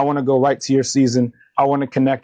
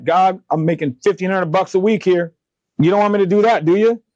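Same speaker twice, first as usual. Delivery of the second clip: higher, rising pleading disbelief; incredulous protest; 5 semitones higher than usual. Retold or imitated. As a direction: argue with God, voice climbing in disbelief. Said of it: "I'm like".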